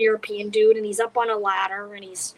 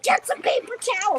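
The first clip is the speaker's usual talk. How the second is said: urgent call; 10 semitones higher than usual. Retold or imitated.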